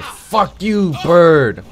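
yelled high and loud at the bird; furious shout. Real, not acted. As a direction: blast it at the screen in real rage. Raging at a game bird.

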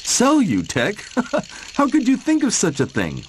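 high amused Molly, with a giggle; laughing. Acted. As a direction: laugh off the silly idea. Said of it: "laughed Molly".

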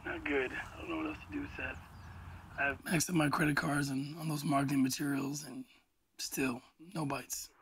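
defeated. Acted. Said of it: "You sound terrible".

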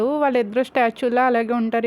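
ordinary delivery, nothing marked

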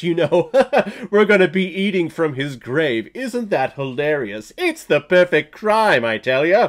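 mock-gleeful gloating killer, chuckling; hammed-up arrogant elitist; smug mockery. Mocking the killers' smug reasoning.

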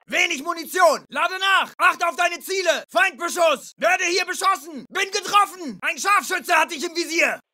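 urgent military shout; shouted combat callout. Acted. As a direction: shout warnings to your squad. Soldier's combat callouts under fire.

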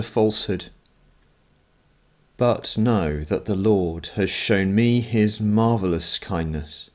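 measured liturgical reading with pauses between phrases; psalm recitation. Acted. Leader reads the evening psalm to worshippers, measured recitation. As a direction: recite it reverently, line by line.

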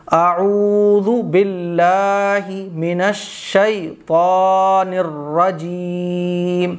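slow, drawn-out chanted recitation; Quranic recitation. Shown as a demonstration. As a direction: recite it in full tajweed. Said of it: "یہ ہے".

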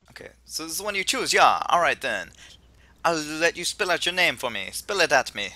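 lightly hammed Jamaican professor; attempted Jamaican accent. Host as professor asks players to spell names, Jamaican accent. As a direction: lilt it in a put-on Jamaican accent. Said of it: "I can't do a Jamaican accent".

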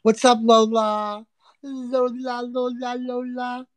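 loud, high call to the dog. Real, not acted. Calling Lola the dog over, loud high call. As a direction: sing out her name to call her.

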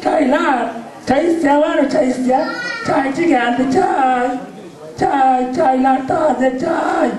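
street tea hawker calling out; tea seller calling. Acted. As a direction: shout out that tea is here. Tea seller calls out, shouting.

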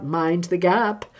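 slow, hushed Tube announcer voice; eerie disembodied station announcement; haunting voice. Retold or imitated. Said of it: "the haunting, disembodied voice".

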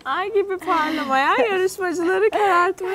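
dramatic slogan. Pretend. Declaims a contestant slogan.

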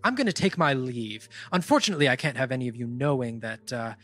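lightly voiced woman spirit, calm and matter-of-fact; a hint of a cool, unbothered spirit taking her leave; spirit in half-orc body. GM as the spirit bidding the party goodbye, lightly voiced calm.

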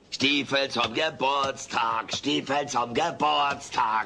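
slow teasing repetition; mocking repeat. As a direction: drag it out to tease. Mocks the birthday boots wish. (langsam spöttisch wiederholt)

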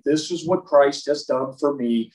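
slow and earnest; slow sincere testimony. Shown as a demonstration. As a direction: speak from the heart, slowly. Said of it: "take that step of faith out and say".

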